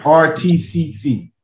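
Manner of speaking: slow spelling out. Shown as a demonstration. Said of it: "I'm gonna slow down for you".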